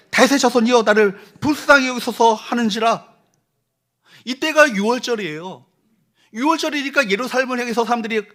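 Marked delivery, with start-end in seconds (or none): 0.1-2.3 crying out. Retold or imitated. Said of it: "더욱 크게 소리질러".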